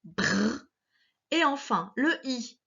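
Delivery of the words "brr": BRR as B running into a long R; slow, drawn-out BRR; blended consonants. Shown as a demonstration. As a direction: hold the R in BRR, no vowel after it. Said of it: "pour faire R, ça fait".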